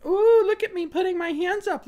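high, squeaky mocking voice; mock lunatic. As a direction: mimic her like a raving lunatic. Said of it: "like a fucking lunatic".

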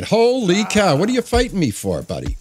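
sudden high yelp of surprise; startled outburst. Real, not acted. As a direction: caught off guard mid-fight, blurt it out. Attacked by NPC in game.

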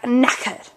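"knackered" with a puff of breath on the k. Shown as a demonstration. Teacher shows where to breathe, aspirated knackered. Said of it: "you take a breath".

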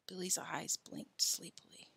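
slow, hushed, drowsy narration; slow down and soften drowsily; sleepy. A narrator's reading. Narrator telling of Billy blinking awake, sleepy.

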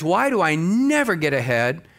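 usual speaking voice

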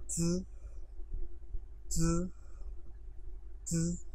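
च said as a clear ch, not a z or g; Chinese z sound. Shown as a demonstration. Teacher teaching students how pinyin z really sounds, clear. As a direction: model च crisply for the class. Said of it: "इसकी pronunciation हमारे पास है च".

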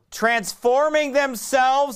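loud, high, fervent preaching of the verse; preaching scripture. Acted. Preacher reading Second Corinthians to the church, loud fervent proclaiming. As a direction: proclaim it to the congregation.

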